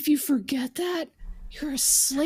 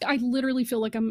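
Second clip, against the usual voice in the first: plain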